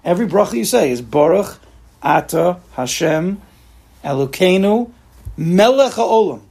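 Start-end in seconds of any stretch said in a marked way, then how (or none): 1.0-6.4 slow, building blessing with feeling; with conviction. Shown as a demonstration. Teacher demonstrating a heartfelt blessing, slow and rising. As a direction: say each word like you mean it. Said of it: "say your amains a little bit better".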